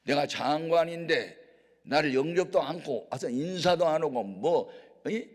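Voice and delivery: furious shouting rant, pitch climbing; indignant official yelling at the prophet's servant; angry general. Acted. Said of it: "이분이 화가 났어요".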